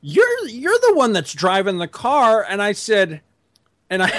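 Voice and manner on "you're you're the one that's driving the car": high, slow indignant wife voice; wife firing back at husband, mimicked high and slow; mocking the wife. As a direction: retort as the wife, pitched up and drawn out. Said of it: "And she's like".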